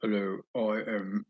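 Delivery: slow, put-on English accent; badly faked English accent, drawn out. Showing viewers his really bad English accent. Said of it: "English accent? It's really bad".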